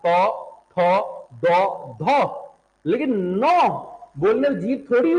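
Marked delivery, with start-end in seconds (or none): 0.1-2.5 तो, थो, दो, धो each with the tongue on the teeth; dental sounds. Shown as a demonstration. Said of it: "दांत में".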